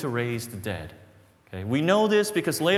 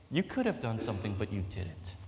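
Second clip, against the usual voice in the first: reproachful; 4 semitones lower, 5 dB quieter than usual. Acted. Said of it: "She's saying".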